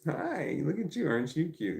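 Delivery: cooing pet talk. Real, not acted. Owner admiring the cute dog, high cooing pet talk.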